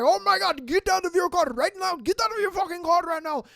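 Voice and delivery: high, loud yell in a put-on accent; mock screaming. Enraged driver ordering them out of their car, mock screaming. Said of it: "he's just screaming".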